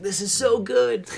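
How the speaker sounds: high, drawn-out gushing; retold excitement. Recalling watching Boss when older, excited gushing. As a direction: gush slowly, pitched well up. Retelling own thrill at show.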